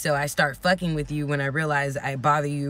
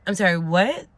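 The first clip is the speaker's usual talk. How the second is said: straining to hear; slower than usual. Retold or imitated. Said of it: "I can barely hear her".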